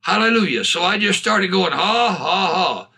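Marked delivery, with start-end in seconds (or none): 1.7-2.9 deliberate spoken laugh, falling at the end; quiet forced laugh. Retold or imitated. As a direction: re-enact a discreet laugh to yourself. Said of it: "Pretty quiet".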